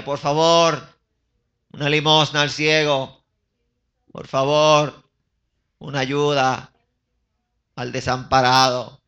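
loud, drawn-out beggar's plea; begging blind man. Acted. Blind man begging alms from passers-by, pleading call. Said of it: "y pedía".

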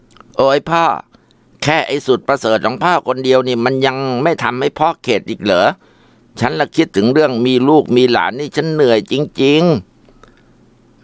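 wife groaning to her husband about the son; exasperated. Acted. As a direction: sigh it out, fed up. Mother complains to husband.

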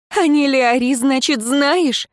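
high, loud, slow and quavering; trembling voice. A narrator's reading. Wounded woman teasing her lover through tears, voice trembling. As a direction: ask through a shaking voice. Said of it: "дребезжащим голосом спросила Альвия".

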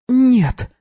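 sudden firm high no. A narrator's reading. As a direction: put your foot down. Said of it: "внезапно обретя твёрдость".

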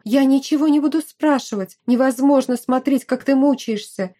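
mildly heated, protective friend; lightly voiced pushy friend. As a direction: plead earnestly, voice lifted. Narrator voices pleading friend.

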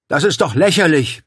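loud, high outburst of disbelief; indignant roar. A narrator's reading. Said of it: "brüllte er".

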